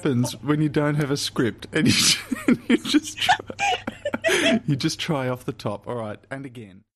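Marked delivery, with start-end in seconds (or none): 0.0-5.9 cracking up. Real, not acted. Co-star on unscripted takes, cracking up. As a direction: try to explain while giggling.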